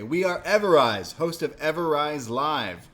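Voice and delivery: loud, high announcer-like introduction, slowed; hyped intro. Retold or imitated. Host imitating duo proudly introducing their show, loud. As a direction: announce yourselves like showmen.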